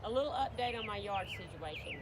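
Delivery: talking around whitening trays. Real, not acted. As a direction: speak with trays in your teeth. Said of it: "I have my whitening trays in my teeth".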